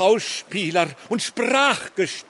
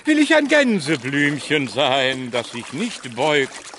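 hammy stage actor. Acted. Hermit declaims a poem on turf.

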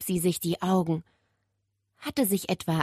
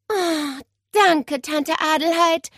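relieved sigh; 10 semitones higher, 4 dB louder, slower than usual. Acted. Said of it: "stöhnte Nele erleichtert".

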